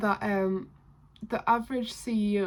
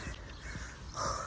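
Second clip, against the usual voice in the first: breathless gasp; 12 dB quieter than usual. Real, not acted. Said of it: "Sorry, I'm so out of breath".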